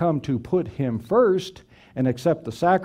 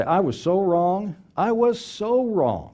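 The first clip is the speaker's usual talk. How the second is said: earnest apology; 6 semitones higher than usual. Acted. Rehearsed apology to offended people.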